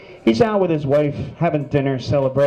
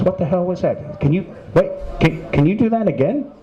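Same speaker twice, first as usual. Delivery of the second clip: higher, startled wife; shocked wife; 4 semitones higher than usual. Acted. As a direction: gasp it out, amazed. Shocked wife asks husband.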